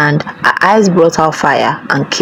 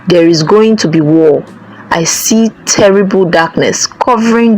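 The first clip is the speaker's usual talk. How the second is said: ominous priest. Acted. Priest foretells doom.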